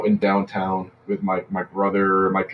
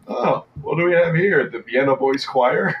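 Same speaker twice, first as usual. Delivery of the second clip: mocking cop; 6 semitones higher than usual. Cop mocks the Guidos.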